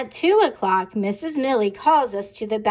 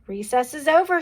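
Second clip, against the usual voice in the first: mild teacher's call; 4 semitones higher, faster than usual. Acted. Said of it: "she yells".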